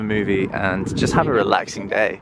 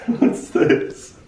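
surprised; much slower than usual. Real, not acted. Surprised by the prank reveal.

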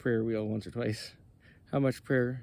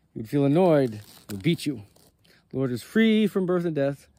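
angry rebuke; 4 dB louder than usual. Acted. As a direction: scold him as a prophet would a heretic. Moses keeps rebuking the shepherd.

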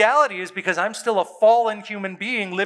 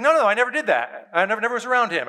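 higher, rushed imitation of denying; hurried denial; 5 semitones higher, much faster than usual. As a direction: protest quickly, acting out a defensive man. Acts out Peter's panicked denial.

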